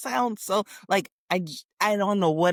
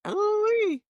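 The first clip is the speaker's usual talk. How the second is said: impressed. Real, not acted. Reaction to star signs.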